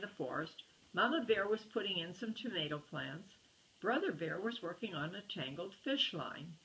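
put-on storybook narration for kids; story narration. A narrator's reading. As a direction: read it like a bedtime picture book. Reads a picture book aloud.

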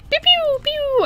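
very high "pew pew" sound effects; mock effect noises. Celebrating five hundred views with homemade effects, high pew noises. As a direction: squeak out playful laser-like pews. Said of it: "hoping that I add some effects".

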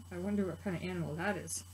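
soft wondering aside. Real, not acted. Teacher to preschoolers, soft wondering aside. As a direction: wonder it gently aloud.

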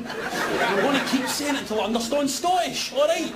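shouting through laughter; laughing shout. Real, not acted. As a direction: yell it back while laughing.

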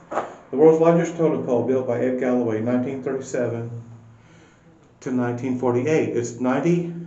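echoing inside a hollow space; echoey room. Real, not acted. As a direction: voice bouncing off close walls. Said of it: "Sorry, it's really echoey in here".

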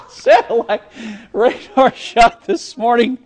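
laughing. Real, not acted. Laughing after co-anchor joke.

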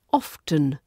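often said OFF-tun, T sounded; pronounced T. Shown as a demonstration. Teacher demonstrating the older form, often with T sound. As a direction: let the T be heard in often. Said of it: "was pronounced with the T sound".

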